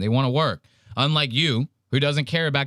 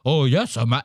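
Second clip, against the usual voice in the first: mocking slave voice. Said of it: "he's mocking them".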